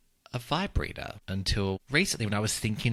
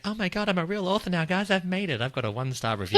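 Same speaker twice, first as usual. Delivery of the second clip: mock thrilled; 10 semitones higher, faster than usual. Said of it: "I was just like".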